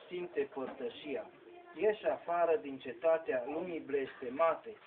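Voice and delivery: solemn verse declaimed in measured phrases; poem recitation. Acted. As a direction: declaim sacred poetry, pausing between the lines. Recites a devotional poem to its end.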